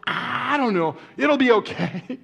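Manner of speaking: high, loud, stretched-out comic reply; hammed-up cluelessness. Husband answering his wife's question, hammed-up cluelessness.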